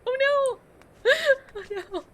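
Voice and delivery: high, loud wail of oh no; dramatic oh no. Real, not acted. Streamer wailing at chat about a sad game, high and loud. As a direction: cry out in mock despair at chat.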